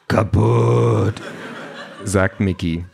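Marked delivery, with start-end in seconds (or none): 0.1-1.2 one blunt, loud robot word; blunt combat robot. Acted. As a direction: state it like a war machine.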